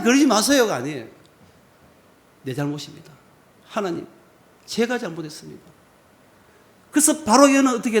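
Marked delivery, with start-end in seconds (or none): 2.4-5.6 humble confession. Acted. Moses humbly confessing to God.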